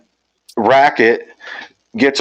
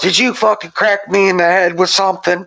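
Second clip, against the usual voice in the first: dazed buddy; 9 semitones higher than usual. Retold or imitated. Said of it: "he gets up and he goes".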